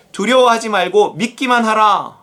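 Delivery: continuous, emphatic scripture quote; scripture command. Acted. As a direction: read the quoted command out firmly. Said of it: "회당장에게 이르시되".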